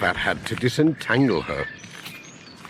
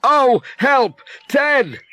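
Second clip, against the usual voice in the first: startled cry; 13 semitones higher, 5 dB louder, much slower than usual. Acted. Pat startled.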